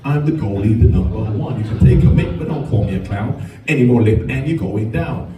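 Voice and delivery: put-on South African accent; rhythmic South African accent, dropping at the end; Bruce Grobbelaar. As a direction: rap it in mock South African. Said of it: "here's my South African accent".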